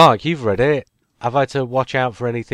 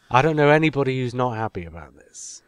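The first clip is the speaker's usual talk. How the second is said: whispered laugh. Real, not acted. Laughing aside.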